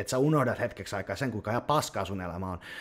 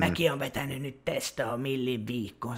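mock gym guy; 3 semitones higher than usual. Quoting dumb gym messages.

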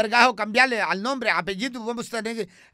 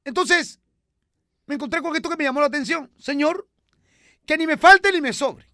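much higher, louder, comic woman's voice; high put-on character voice; 8 semitones higher, 6 dB louder than usual. Comic character voice chatting with the host. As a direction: play it high and bright like a radio sketch character.

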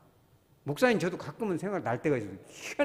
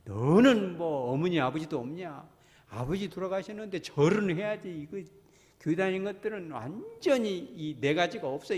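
mock family quarrel; 3 semitones higher than usual. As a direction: imitate a holiday row, chiding. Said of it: "막 싸움이 붙습니다". (명절에 다투는 친척 흉내, 나무라는 말투)

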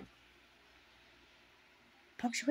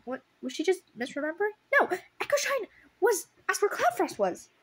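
higher, louder exasperated rant; outraged rant; 7 semitones higher, 6 dB louder than usual. Real, not acted. Reader outraged at the book's mistake, higher and louder. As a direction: vent in disbelief at the plot. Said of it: "outraged at the plot".

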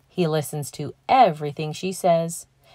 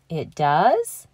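surprised. Acted. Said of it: "Llama Llama replies, surprised".

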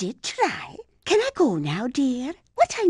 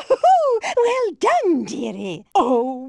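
delighted cry; 4 dB louder, slower than usual. Acted. Cheering the win.

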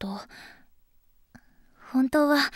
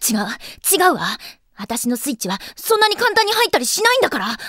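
flustered denial; 3 dB louder than usual. Acted. Girl denying her heart's switch flipped, flustered. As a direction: insist against your own feelings. Denies falling in love to herself.

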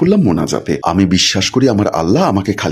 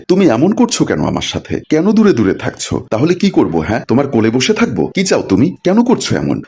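raised-pitch marital quarrel; exasperated demand; 3 semitones higher than usual. Acted. Husband asking wife why she avoids him, exasperated. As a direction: demand answers, mildly exasperated.

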